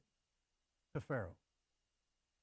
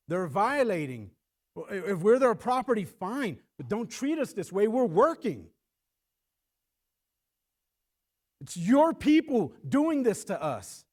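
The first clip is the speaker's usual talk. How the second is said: indignant protest; 3 semitones higher, 6 dB louder than usual. Acted. Israelites protesting to Pharaoh.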